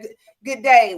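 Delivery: bright cheery greeting. Retold or imitated. Acting out her children's greeting.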